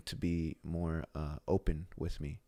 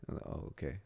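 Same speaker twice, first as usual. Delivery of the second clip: son backing down; 3 semitones lower, 7 dB quieter than usual. Retold or imitated. Son backing down when dad's serious.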